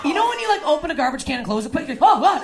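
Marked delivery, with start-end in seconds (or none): 2.1-2.4 higher, louder gross-out cry; disgusted. Retold or imitated. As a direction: recoil from a bad smell. Reacting to stench.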